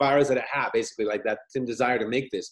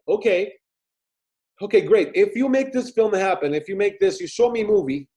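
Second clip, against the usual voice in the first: higher, louder, eager voice; excited drunk deal; 6 semitones higher, 5 dB louder than usual. Retold or imitated. Retelling the producer's drunk offer.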